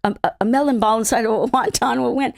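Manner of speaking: whispered into ear, retold. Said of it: "left ear going".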